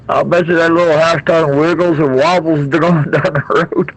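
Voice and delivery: chuckling through the words; laughing while talking. Real, not acted. Laughing at the wobbly trailer.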